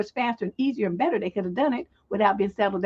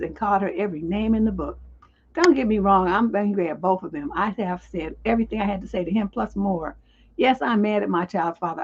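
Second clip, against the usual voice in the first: even, lower-pitched letter read; reading a letter aloud; 3 semitones lower than usual. Acted. Advice host reads a letter from a wronged pregnant woman, measured read-aloud. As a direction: read out someone's written complaint.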